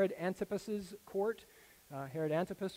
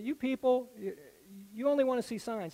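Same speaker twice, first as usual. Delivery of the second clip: exasperated rebuke; 4 semitones higher than usual. Retold or imitated. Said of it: "Jesus said".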